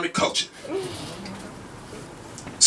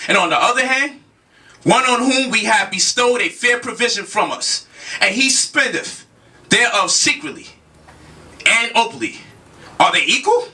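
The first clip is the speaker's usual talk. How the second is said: measured recitation with deliberate pauses between phrases; scripture reading. Acted. Lecturer reading a Quran verse to his audience, measured recitation. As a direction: read the verse out formally, phrase by phrase.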